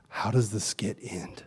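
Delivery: slow, low, lightly voiced little girl; little girl asking. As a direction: ask timidly like a small child. Little girl asks about skit.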